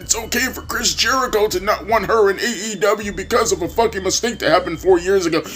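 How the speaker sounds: high, whiny mocking voice of the other guy; mimicking a critic in a whiny high voice; mocking quote. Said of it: "then you say".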